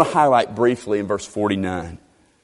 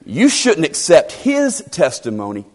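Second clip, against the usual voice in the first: acted self-important lecturing; mock-pompous dismissal; dripping with ego; 5 semitones higher than usual. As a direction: talk down to them like a proud Pharisee. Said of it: "this just drips with ego".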